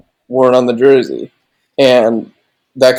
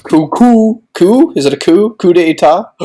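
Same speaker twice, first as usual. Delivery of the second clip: higher questioning coup; puzzled repeating; 5 semitones higher than usual. Real, not acted. Host unsure how to say coup, puzzled higher voice. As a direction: test the word, baffled.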